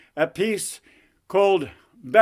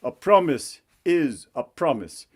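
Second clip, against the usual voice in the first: stern king. Acted. King holds princess to her word, stern king voice. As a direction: lay down the law as the royal father. King lectures his daughter.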